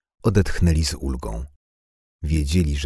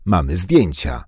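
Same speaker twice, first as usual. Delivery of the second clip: menacing; 3 semitones higher, 5 dB louder than usual. Acted. Thug threatening the boys.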